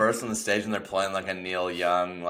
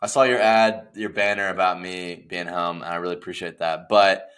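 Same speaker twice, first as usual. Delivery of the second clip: low mock Neil voice; 8 semitones lower, 4 dB quieter than usual. Neil's low mock voice reading ultimatum.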